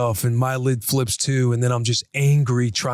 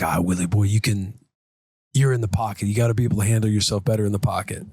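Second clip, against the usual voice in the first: self-talk coach voice; 4 semitones lower, faster than usual. Retold or imitated. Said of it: "You're like".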